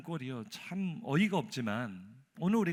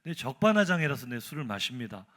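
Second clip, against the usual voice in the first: bolder, brazen; 4 dB louder than usual. Retold or imitated. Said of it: "더 당당하게".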